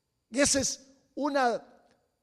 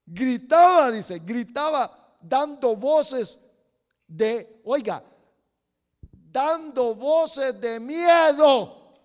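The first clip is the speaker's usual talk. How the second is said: emphatic preaching; 2 semitones higher, 7 dB louder, slower than usual. Real, not acted. Preacher stressing the fearful shouting.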